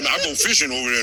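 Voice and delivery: low Southern impression; Southern accent. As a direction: imitate a Southerner through laughter. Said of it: "You so Southern".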